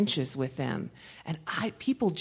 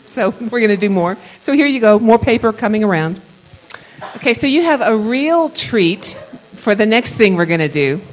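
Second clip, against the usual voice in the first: normal talking voice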